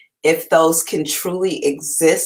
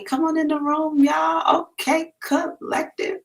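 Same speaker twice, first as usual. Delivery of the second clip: high sing-song hello to viewers; high-pitched greeting; 12 semitones higher than usual. Real, not acted. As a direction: call out the welcome way up high.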